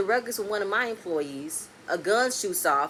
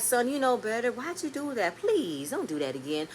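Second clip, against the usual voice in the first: gentle pep talk. Retold or imitated. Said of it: "a simple pep talk like".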